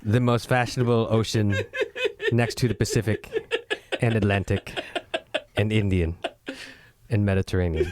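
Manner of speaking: mock French accent. Host introducing the most fashionable episode, mock French accent. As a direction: put on a slightly camp French accent. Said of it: "That was French".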